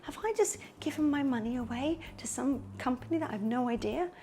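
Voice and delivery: anxious client. Acted. Client wondering about an unknown company, mildly anxious. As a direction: voice a client's mild, hushed doubts.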